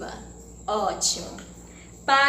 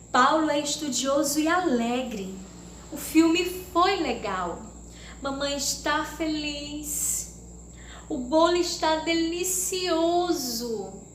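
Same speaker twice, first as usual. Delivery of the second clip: exclamatory reading; 3 semitones higher than usual. Shown as a demonstration. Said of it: "eu transformei elas em frases exclamativas".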